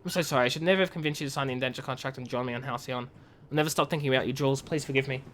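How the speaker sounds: lightly voiced, quiet grieving read; sorrowful letter. Sibling writes to a sister lost in hibernation, softly sad.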